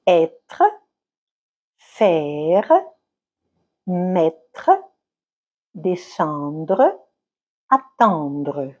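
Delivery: être, faire, mettre said with the stress on the first syllable and the final e barely audible; silent final syllable. Shown as a demonstration. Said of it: "syllabe finale muette". (syllabe finale muette, voix plus grave)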